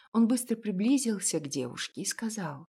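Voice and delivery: ordinary delivery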